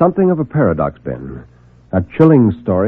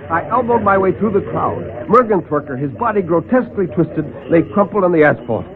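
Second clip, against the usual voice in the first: ordinary delivery, nothing marked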